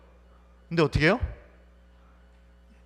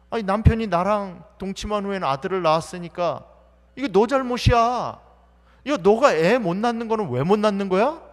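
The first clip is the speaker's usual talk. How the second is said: spiteful taunt; 3 semitones higher, 5 dB louder than usual. Acted. Peninnah taunting Hannah, louder.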